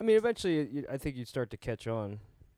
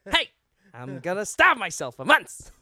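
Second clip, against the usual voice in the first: high, loud, slow put-on Indian accent; mock Gandhi voice with an Indian accent; 8 semitones higher, 11 dB louder than usual. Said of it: "I almost did a very racist impression".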